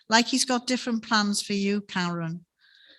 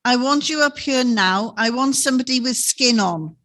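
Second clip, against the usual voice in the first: put-on a small boy's demanding call, louder and pushier; more angry and assertive; 3 semitones higher, 5 dB louder than usual. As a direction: insist from upstairs, fed up and bossy. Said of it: "a voice that was a little more angry and a little bit more assertive".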